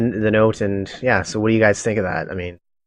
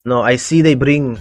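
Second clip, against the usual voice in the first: put-on slow, light Russian accent; 2 semitones higher, slower than usual. Cultist telling of people brought here, Russian accent. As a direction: say it slowly with a slight Russian accent. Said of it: "a Russian, little bit of a Russian accent".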